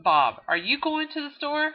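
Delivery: a hint of a casual neighbor calling out; asking a friend. Acted Texas soda-run chat.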